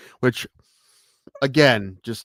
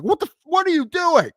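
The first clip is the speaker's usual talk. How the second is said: mock outrage; 6 dB louder than usual. Retold outrage at mayo swap.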